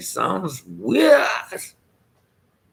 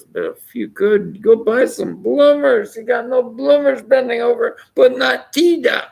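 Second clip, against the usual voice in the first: higher, louder mock Irishman telling the wife off; hammed-up Irish husband, raised and ringing; 13 semitones higher, 5 dB louder than usual. Teller plays the Irishman in a golf joke, louder and higher. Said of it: "the Irishman says".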